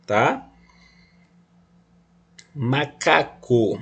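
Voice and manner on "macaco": 1 slow demo. Shown as a demonstration. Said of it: "percebam que aqui o M".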